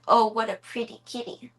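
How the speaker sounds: a hint of grandma admiring the cat; lightly voiced old lady's praise; imitating grandma. Imitating grandma praising the cat, lightly voiced. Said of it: "Grandma would have said".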